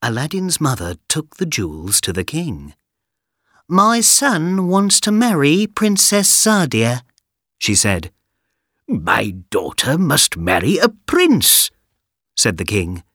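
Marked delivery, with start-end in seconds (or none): 3.7-7.0 high, slow hopeful mother; mother's plea. Acted. Mother voiced. 8.9-11.7 stern king. Acted. King voiced.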